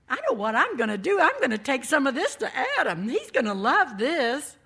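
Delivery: fast, loud and eager; excited. Acted. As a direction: rush it out with excitement. Eve eager to share fruit.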